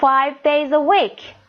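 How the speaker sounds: slow model reading. Shown as a demonstration. Teacher models English sentence.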